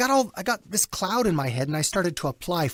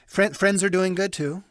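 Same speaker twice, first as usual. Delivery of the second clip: telemarketer voice; 3 semitones higher than usual. Shown as a demonstration. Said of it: "you sound like a telemarketer".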